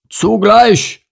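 loud, high heave-ho call; commanding cry on one word; shouted command. A narrator's reading. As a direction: shout it to make everyone pull. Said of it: "kommandierte Bernd".

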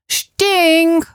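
put-on high yelling little boy; child's yell. A narrator's reading. Max yells in the car, high little-boy yell. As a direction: shout it like a small child. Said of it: "schreit Max".

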